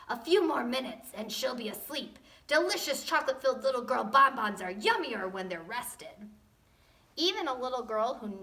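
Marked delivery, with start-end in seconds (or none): 0.1-6.3 gloating dinosaur. Acted. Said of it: "a dinosaur gloating".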